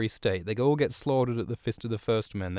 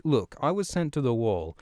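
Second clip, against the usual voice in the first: indignant Ron; 2 semitones higher than usual. Retold or imitated. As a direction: protest your innocence, worked up. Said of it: "Ron comes in and he's like".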